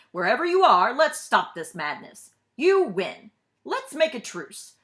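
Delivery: loud, coaxing plea; pleading president. Acted. President speaks to the map to win over the bug, loud and coaxing. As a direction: coax the hidden bug loudly.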